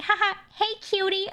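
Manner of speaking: squeaky, very high-pitched whisper. Retelling a voice heard in the middle of a streamer's stream: imitating a really high-pitched voice. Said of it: "really high pitched voice go like".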